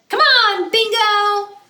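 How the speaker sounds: high, loud call to the dog. Acted. Lulu calling her dog home, high bright call. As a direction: call Bingo to come inside.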